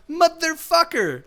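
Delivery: a long, disbelieving groan of a curse; exasperated curse. Retold or imitated. Recaptured by the same gang.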